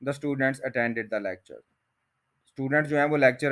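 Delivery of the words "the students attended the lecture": slow spoken form. Shown as a demonstration. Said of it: "spoken के साथ भी आप बना सकते हैं".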